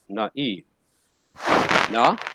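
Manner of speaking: naive split as na-e, two clear syllables; sounding out naive. Shown as a demonstration. Teacher comparing naive with the Greek diaeresis. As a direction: pull the a and i of naive apart. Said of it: "So we say he is naive".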